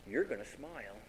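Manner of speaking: soft, teasing imitation of mom; lightly voiced mom. Mom teases her sulking kid, soft coaxing. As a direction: coax a sulker quietly. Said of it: "She'd go like".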